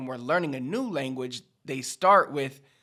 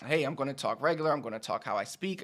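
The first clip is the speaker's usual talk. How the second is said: casual fast talk; 4 dB quieter, faster than usual. Retold or imitated. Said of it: "then I'm gonna be like".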